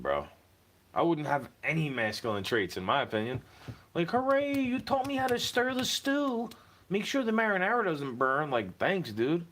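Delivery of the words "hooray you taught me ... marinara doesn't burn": mock cheer. Mocking a lesson he got.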